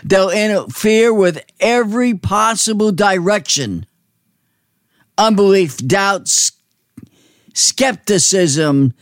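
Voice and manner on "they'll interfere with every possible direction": normal talking voice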